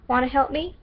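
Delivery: put-on stereotypical American Southern accent. Shelby asks Caster to help with dinner, Southern accent. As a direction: ask with a put-on Southern lilt. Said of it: "stereotypical Southern accent".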